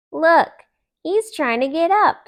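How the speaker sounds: a little rabbit can't contain himself; excited. Acted. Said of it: "said Thumper".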